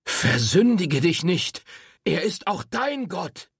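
lightly voiced admonishing priest; warning priest. A narrator's reading. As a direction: caution her gravely. Priest warns her.

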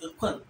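"a kwan" shut on the final n; Fanti stop. Shown as a demonstration. Teacher showing the stop, "a kwan" closed off. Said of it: "you can feel the stop there".

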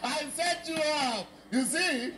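very high, laughing shriek of triumph; gleeful laughing gotcha. Real, not acted. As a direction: crow it through big peals of laughter. Teacher gleefully springs trick on class.

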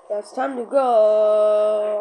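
slow, loud and drawn out; robot voice. Acted. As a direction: announce it slowly and robotically. Robot leaves.

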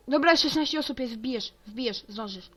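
high, loud, rising panic; frantic urging. Real, not acted. Urging friend to join before server fills.

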